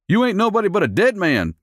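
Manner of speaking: high taunting thug voice. A narrator's reading. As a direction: threaten him with a sneer. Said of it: "dared to say".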